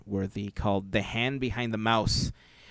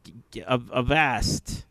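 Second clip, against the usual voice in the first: pirate voice. Acted. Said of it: "Talk Like Pirate Day".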